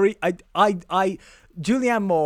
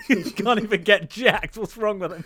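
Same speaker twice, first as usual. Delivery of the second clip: laughing mockery; 3 semitones higher than usual. Real, not acted. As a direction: jeer while cracking up.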